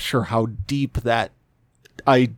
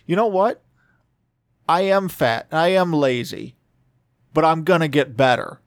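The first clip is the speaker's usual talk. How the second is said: inner voice; 3 semitones higher than usual. Retold or imitated. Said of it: "to be like".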